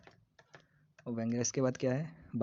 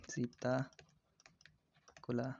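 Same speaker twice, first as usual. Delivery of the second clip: सीताकुला stretched out part by part; slow dictation; 4 dB quieter, much slower than usual. Shown as a demonstration. Teacher repeats a bird's name for students, very slowly. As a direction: break सीताकुला into long, separate pieces.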